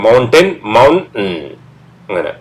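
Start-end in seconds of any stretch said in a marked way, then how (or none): 0.1-1.3 മൗണ്ടൻ said slowly, no t; slow demo. Shown as a demonstration. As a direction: drag out മൗണ്ടൻ for learners. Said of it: "മനസ്സിലായില്ലേ".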